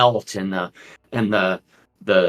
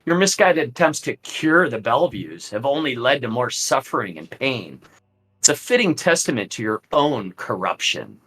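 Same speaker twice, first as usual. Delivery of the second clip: smirking; 4 semitones higher than usual. Acted. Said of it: "Strahd just smirks".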